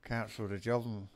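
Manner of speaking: talking around a vape; words muffled by a vape; vape in mouth. Real, not acted. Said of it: "Sorry, my vape in my mouth then".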